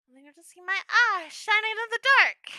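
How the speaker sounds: high, loud, lightly creepy gremlin; spooky little monster threat. Pretend. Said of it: "gremlin nightmare thing".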